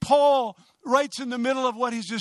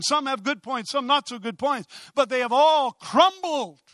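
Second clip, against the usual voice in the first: fervent, driving sermon delivery; impassioned preaching; 3 semitones higher than usual. Real, not acted. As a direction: preach it with conviction, stretching key words. Preaches at full force.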